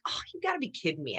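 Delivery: hushed and quick, you gotta be kidding me; deflated disbelief. Retold or imitated. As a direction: let the air out of it. Deflated at hearing the news.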